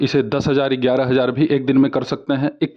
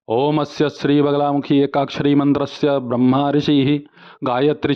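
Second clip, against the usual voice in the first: even-toned Sanskrit recitation; mantra recitation. Shown as a demonstration. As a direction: recite the mantra on a steady note. (एक सुर में मंत्र-पाठ)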